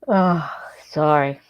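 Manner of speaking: sleepy words through a yawn. Real, not acted. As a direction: say it mid-yawn, drowsy. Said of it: "I'm yawning something fierce".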